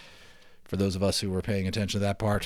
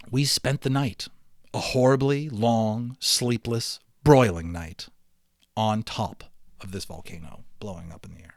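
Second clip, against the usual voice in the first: lively read-aloud narration, a bit louder than the chat; story narration; 3 dB louder than usual. A narrator's reading. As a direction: read the adventure to the class with energy. Teacher reads novel aloud.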